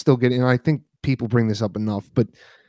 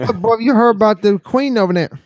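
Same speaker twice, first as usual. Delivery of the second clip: a hammed-up British accent, pitched higher; bad British accent; 10 semitones higher, 4 dB louder than usual. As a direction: fake British, with a stray twang mixed in. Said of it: "Never try to do a British accent".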